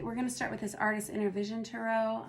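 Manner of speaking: hoarse, worn voice; losing voice. Real, not acted. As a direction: speak through a failing voice. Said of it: "I'm losing my voice a little bit".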